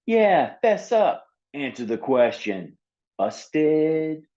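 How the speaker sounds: pin him down, gotcha; accusing girl. Acted. Lorelei accusing Seal.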